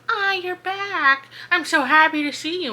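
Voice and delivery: a gleeful bog savoring its prey; creepy creature glee. Retold or imitated. Forest bog greeting Callie back to the cell, high creepy glee.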